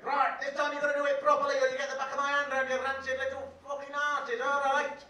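loud, menacing threat with a put-on teacher voice; furious teacher. Angry rugby teacher threatening the useless boys, loud and menacing. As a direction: threaten the whole line like a raging coach. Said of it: "so he went mad".

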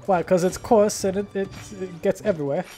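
playful, poorly faked British voice; bad British accent. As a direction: do a terrible mock British accent. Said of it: "pulling out the British".

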